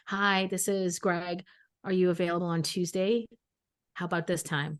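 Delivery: lightly voiced stilted phone caller; awkward Greg. Husband-to-be arranging a first date by phone, mildly awkward. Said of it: "He's still that awkward".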